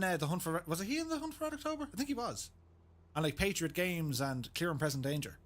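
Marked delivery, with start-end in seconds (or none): 0.7-2.5 high, fast Sean Connery slur. Retold or imitated. Streamer mangling a Sean Connery impression, high and fast. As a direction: rattle it off in a squeaky Connery lisp. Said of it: "Do you remember him in".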